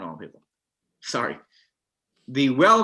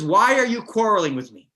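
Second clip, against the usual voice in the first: exasperated Moshe; 5 semitones higher than usual. Retold or imitated. Moshe pushing back at the thirsty people, fed up. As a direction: push back at a crowd that keeps yelling. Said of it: "And he says".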